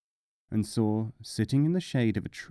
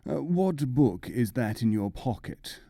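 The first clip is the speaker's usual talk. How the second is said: host asking. Acted. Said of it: "his host asked him".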